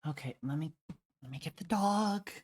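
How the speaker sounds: exasperated sigh of a tired owner; irritated. Real, not acted. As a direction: let the irritation show. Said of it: "Irritation in that voice".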